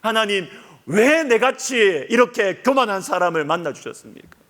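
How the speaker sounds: grateful why me prayer; awed confession. Retold or imitated. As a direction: marvel at undeserved grace. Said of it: "주님께 고백하는 것이 뭐냐면".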